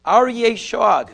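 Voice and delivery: slow, loud, weighty intonation; dramatic verse quote. Acted. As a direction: let each word land like a roar. Quoting the verse of Amos.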